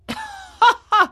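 high-pitched mocking laugh; short, high laugh of scorn; angry scornful laugh. A narrator's reading. Man mocking the marionette's story, scornful laugh. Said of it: "cried the man angrily".

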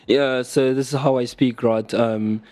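casual attempt at a British accent; lightly put-on British accent, conversational. Shown as a demonstration. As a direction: chat as if you were basically British. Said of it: "British accent impersonation".

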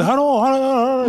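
put-on a comic Japanese accent on a phone greeting. Imitating the Japanese journalist's accent on the call. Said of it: "most comical Japanese accent".

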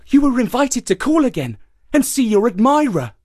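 high, smooth hare. A narrator's reading. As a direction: sweet-talk the donkey.

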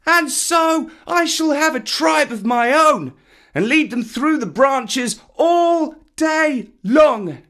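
put-on very high, loud childish boast; high-pitched excited yelling, slow finish; shouting boy. A narrator's reading. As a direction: crow it out at full voice. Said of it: "shouting at the top of his voice".

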